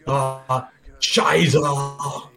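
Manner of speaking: drawn-out mock German exclamation; cartoon German impression; German accent. Shown as a demonstration. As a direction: put on a hammed-up German accent. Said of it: "This is me doing a German accent".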